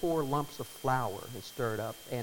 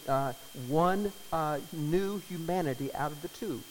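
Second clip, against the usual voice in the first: scripture reading. Acted. Reads scripture aloud.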